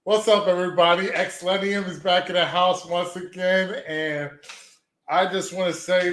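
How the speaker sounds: slow, dragged-out mock YouTuber intro; lightly hammed-up gloomy vlogger opening; mock sad streamer greeting; parody intro. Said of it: "I'm gonna do a little parody".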